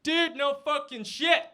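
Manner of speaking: loud, high, slow mock-Texan drawl; Texan impression. Texan in bar butts in, loud Texan drawl. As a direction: stretch it out as a brash Texan. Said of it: "There was this guy, it was in Texas".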